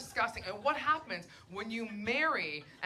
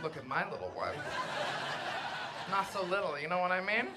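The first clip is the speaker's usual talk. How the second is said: mock proud parody; 4 semitones lower, 5 dB quieter, faster than usual. Her parody showing dick pic.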